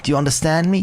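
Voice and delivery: lightly voiced eager girl boss; rally the crowd like a giddy CEO; grand, bubbly sales pitch to a crowd; Qingque.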